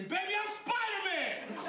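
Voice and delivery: high, slow hammed-up shout; retold scream. Jumping through bathroom window to girlfriend, hammed-up scream. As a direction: yell it like a kid leaping through a window. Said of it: "and scream".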